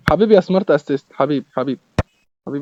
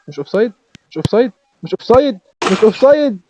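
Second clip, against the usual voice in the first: rising excited shouting; 6 semitones higher, 4 dB louder than usual. Real, not acted. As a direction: pitch and volume climb from eager to full yell. Goal being checked for offside.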